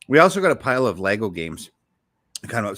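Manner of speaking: chewing while talking; mouth full. Real, not acted. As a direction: talk through a bite of cookie. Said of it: "I'm chewing on a cookie here".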